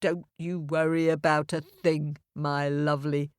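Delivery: a hint of a reassuring, motherly cow; lightly voiced kindly cow. Cow reassures the little boy, lightly soothing. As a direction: soothe gently, voice settling low. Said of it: "said the cow".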